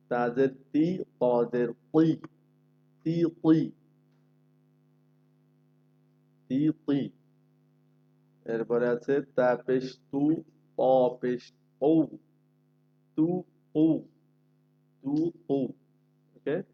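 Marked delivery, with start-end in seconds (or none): 3.0-7.1 তি thin, কুই heavy and higher; drill contrast. Shown as a demonstration. Teacher contrasts ti and tui for students. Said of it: "তা যেন আবার ত না হয়". 13.2-14.0 তু ঔ said higher, thin then heavy; drill contrast. Shown as a demonstration. Teacher drills tu and tu contrast. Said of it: "ত না হয়".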